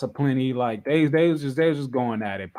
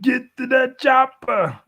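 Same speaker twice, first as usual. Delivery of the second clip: higher, slow, louder order; telling Gunther to get to the chopper, mock command; 10 semitones higher, 5 dB louder than usual. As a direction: call out like a hype man.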